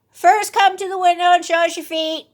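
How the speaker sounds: put-on high child voice; cautious little kids testing; kids' voice. A narrator's reading. Kids testing the wolf at the window, high voice.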